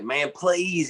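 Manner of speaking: high-pitched imitated plea; begging. Buddy begging to meet his guitar idol, imitated pleading. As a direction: plead like a desperate fan, played lightly. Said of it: "he was begging me".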